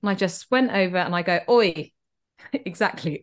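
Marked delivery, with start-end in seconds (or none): 1.5-1.9 short, louder "oi"; retold challenge. Confronting the man with her pasta box, a challenging call. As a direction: call out to stop someone. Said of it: "All of a sudden my accent changed".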